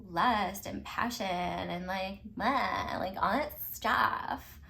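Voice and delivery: slow, lazy vocal fry. Pretend. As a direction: drag the words out in a creaky fry. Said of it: "Do you like my vocal fry?".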